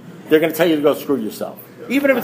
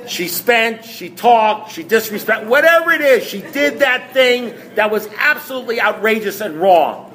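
mock outrage; 5 semitones higher than usual. Re-enacts complaint about wife.

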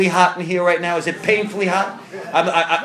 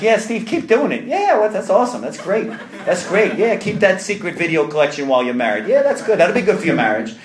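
mock approval. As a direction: ham up a sponsor who approves everything. Mock approving fringe sponsor.

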